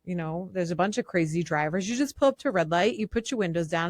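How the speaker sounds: normal talking voice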